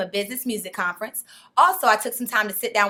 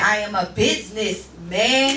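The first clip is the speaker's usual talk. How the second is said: a rapper's quote; slower than usual. Retold or imitated. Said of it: "Like a rapper said".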